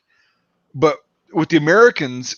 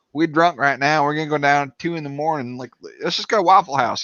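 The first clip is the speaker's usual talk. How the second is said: broad mock Tennessee twang; imitated Western Tennessee talk; Western Tennessee accent. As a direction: play a Western Tennessee local. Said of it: "Western Tennessee".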